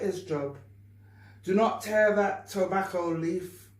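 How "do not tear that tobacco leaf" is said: mock yell at the new boy, louder; a lightly acted angry boss barking an order; factory boss scolding a boy, mildly loud. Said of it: "the boss yelled at the new boy".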